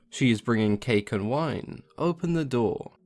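wolf badly faking Little Red Cap; wolf posing as girl. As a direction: pretend to be the girl. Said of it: "replied the wolf".

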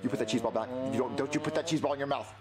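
low stern parent voice; stern dad. Acted. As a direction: scold like a strict father. Dad scolding child with food.

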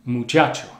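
muchacho with a solid ch; muchacho, firm ch sound; standard ch. Shown as a demonstration. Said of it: "muyallo instead of".

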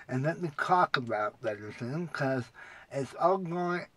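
talking with tongue held down; words blurred by a held tongue; holding tongue with fingers. Real, not acted. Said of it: "so now that I can talk normal".

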